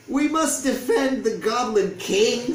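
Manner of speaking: rally the troops; loud slow goblin war cry. A narrator's reading. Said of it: "said the other goblins".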